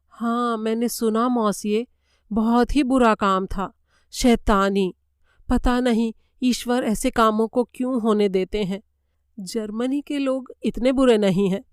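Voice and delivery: a hint of a nervous maid, earnest; German maid Schmidt. Maid Schmidt answering the detective, lightly voiced.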